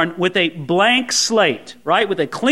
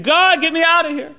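mock desperate scream; 6 semitones higher than usual. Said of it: "we're screaming".

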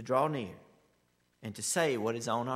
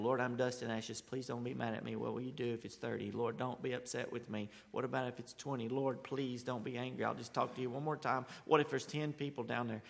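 softer, humble asking; humble respectful plea; 2 semitones lower, 5 dB quieter than usual. Retold or imitated. Abraham humbly bargaining with the Lord, softer. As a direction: ask gently, careful not to anger. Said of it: "he keeps it respectful".

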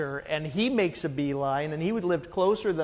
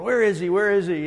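mock-frantic, louder repeated question; lightly hammed-up frantic searching; 6 dB louder, faster than usual. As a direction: imitate someone urgently hunting around. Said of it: "looking around like a crazy person".

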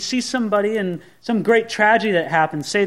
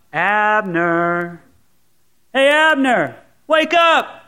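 calling out; much slower than usual. Acted. David hollering across to wake the sleeping Abner. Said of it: "starts calling out".

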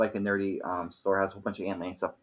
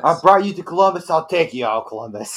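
mock menacing threat; 6 semitones higher, 5 dB louder than usual. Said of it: "Sounds a lot more menacing".

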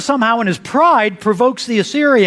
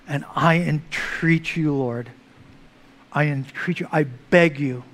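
broken plea; 5 semitones lower, slower than usual. Retold or imitated. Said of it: "Manasseh's watching his entire world crumble".

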